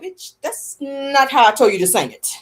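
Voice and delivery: mock scolding Ike, slowed. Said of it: "Ike was like".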